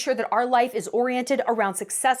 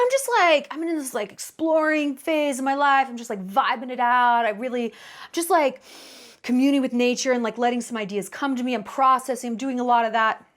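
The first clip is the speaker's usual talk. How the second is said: vague rambling guy. Retold or imitated. Mocking a vague man's answer.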